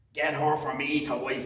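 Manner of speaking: put-on pirate voice. Repeating a verse just read aloud, in a pirate voice. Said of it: "He kinda sounds like a pirate when he says it".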